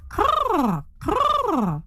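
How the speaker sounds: high, rasping caw; raven croak. Acted. Raven lands on garbage, croaking high.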